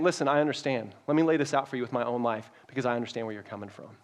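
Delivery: calm them down like a patient mentor; gentle Paul. Pretend. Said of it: "he's saying".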